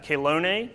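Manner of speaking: chelone said slowly as kay-LOH-nay, starting with a K; hard K sound. Shown as a demonstration. Teacher slowly sounding out chelone with a K sound. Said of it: "it makes a K sound".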